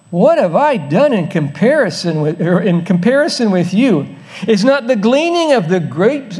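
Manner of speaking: emphatic, swooping flattery; laying it on thick. Acted. Gideon humbly flattering the angry Ephraimites, laying it on thick. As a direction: lay on the humble praise with big rises and falls. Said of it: "He lays it on thick".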